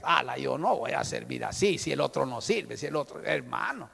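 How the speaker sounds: whiny complaint. Retold or imitated. Complaining believer quoted.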